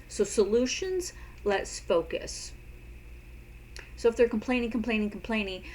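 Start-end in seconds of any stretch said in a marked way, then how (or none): 0.2-2.5 slow repeat. Shown as a demonstration. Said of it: "you can say".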